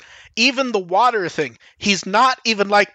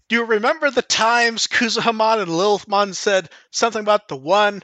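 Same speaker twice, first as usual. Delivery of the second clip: horrible character voice; 3 semitones higher than usual. Retold or imitated. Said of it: "that was fucking horrible".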